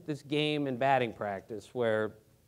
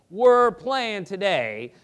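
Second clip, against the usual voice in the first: slow, louder, higher, each word leaned on; insistent retort; 4 semitones higher, 9 dB louder, slower than usual. Retold or imitated. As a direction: lay down "We're playing today" slowly and forcefully. Teammate insists after a refusal.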